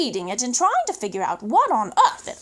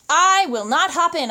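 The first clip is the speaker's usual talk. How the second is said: louder, firm "not"; firm refusal; 5 dB louder than usual. Acted. Boy refuses the pelican firmly. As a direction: dig in and refuse.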